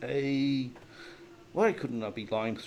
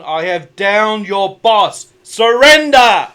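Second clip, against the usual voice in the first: high, loud and slow goblin shout; high-pitched kobold yell; 8 semitones higher, 17 dB louder, much slower than usual. Acted. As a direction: bellow it like a squeaky kobold demanding surrender. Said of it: "I yell out in Goblin".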